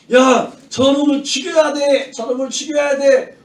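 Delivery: imitated shouting for blood; acted crowd shout. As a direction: call it out like an angry mob. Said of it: "막 사람들이 소리치기 시작했어".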